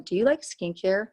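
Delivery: breezy, direct question to a stranger; casual opener. Shown as a demonstration. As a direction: toss it out lightly, straight in. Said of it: "And I just go in".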